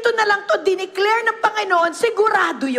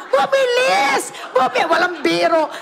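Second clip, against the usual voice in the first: higher, drawn-out cry of delight; excited exclamation; 5 semitones higher than usual. Retold or imitated. Pastor tells how the car sped up, excitedly. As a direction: stretch it out in joyful amazement.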